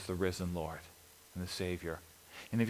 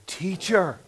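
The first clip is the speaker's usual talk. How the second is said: high, loud joyful cry; crying out Teacher; 9 semitones higher, 5 dB louder than usual. Retold or imitated. Joyce recognising Jesus, crying out high and loud. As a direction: call out Teacher as she recognises him. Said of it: "she cried out".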